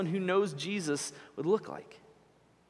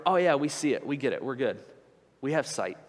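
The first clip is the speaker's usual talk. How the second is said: lightly voiced smug Pharisees; 3 semitones lower than usual. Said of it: "And they were going".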